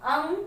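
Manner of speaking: "अंग" with the vowel sent through the nose; नाक से उच्चारण. Shown as a demonstration. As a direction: hum the nasal in "अंग". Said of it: "इसका उच्चारण नाक से होता है". ("अंग" नाक से बोलें)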